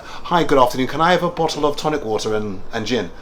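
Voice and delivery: a put-on best English accent, only lightly done. To the bartender in Atlanta, a lightly put-on best English accent. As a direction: order a drink in a mildly put-on English accent. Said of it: "I put on my best accent on purpose".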